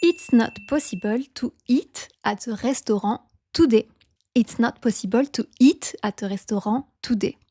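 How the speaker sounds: French accent, POSSIBLE ending in "bul". Shown as a demonstration. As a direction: RESTAURANT said as in French, silent T. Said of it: "you try reading this sentence".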